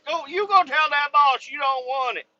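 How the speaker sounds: high, loud mock order; mock demand. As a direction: boss her around in jest. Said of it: "I'm like".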